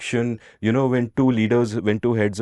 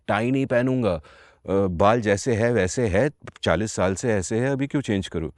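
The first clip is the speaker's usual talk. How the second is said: Havel in Hindi; much faster than usual. Retold or imitated. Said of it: "of course not in Hindi".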